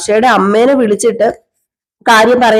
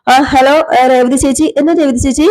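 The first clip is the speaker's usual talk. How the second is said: higher voice answering a call; lightly voiced caller, pitched up and questioning; acted phone greeting; 4 semitones higher than usual.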